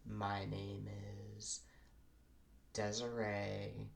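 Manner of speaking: put-on white girl voice. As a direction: drawl it like a bubbly white girl. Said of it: "are a white girl voice".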